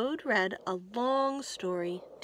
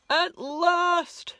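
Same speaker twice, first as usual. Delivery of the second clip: much higher and louder, triumphant; joyful shout; 8 semitones higher, 11 dB louder than usual. Acted. Toad seeing his plants at last, joyful shout. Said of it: "shouted Toad".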